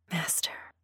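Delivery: soft, hushed whisper. A narrator's reading. Woman to the master who surprised her, whispered. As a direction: whisper it, barely voiced. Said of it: "I whispered".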